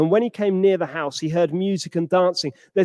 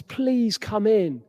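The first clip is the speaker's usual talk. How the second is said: pleading; 3 semitones higher, 4 dB quieter, slower than usual. Acted. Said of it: "he pleads with him".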